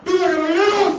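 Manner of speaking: loud, high shouted cheer; rallying shout. Real, not acted. Director leading officers in a second cheer, full rallying shout. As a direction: shout it out to rouse the whole crowd. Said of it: "si me ayudan a gritar".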